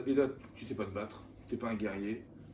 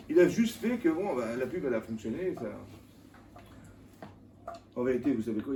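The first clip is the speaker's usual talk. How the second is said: ordinary talk, nothing marked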